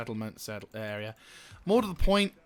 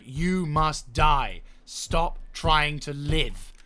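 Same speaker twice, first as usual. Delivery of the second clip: mock menacing decree; 2 semitones higher, 5 dB louder, much slower than usual. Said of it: "it's like".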